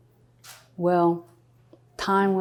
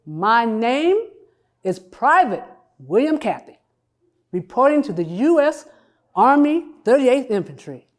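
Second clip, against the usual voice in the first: military reporting in, phrase by phrase; Private William Cathy; 3 semitones higher than usual. Acted. Woman posing as a soldier at recruiting office, formal report. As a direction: announce name and unit in measured, separated phrases.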